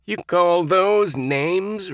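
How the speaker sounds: slow, scornful disbelief; incredulous snort. A narrator's reading. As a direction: scoff at the names. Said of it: "Roger snorted incredulously".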